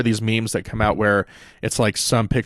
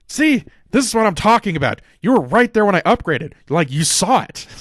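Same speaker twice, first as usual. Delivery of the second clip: whiny Jericho; 9 semitones higher, 3 dB louder than usual. Retold or imitated. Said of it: "And Jericho's like".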